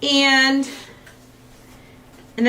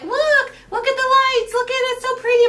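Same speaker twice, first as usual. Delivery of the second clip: high-pitched mock gushing; imitating delighted oohing at a display; excited showing-off; 12 semitones higher, faster than usual. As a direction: gush like they're proudly showing it off. Voicing proud pranksters showing lights.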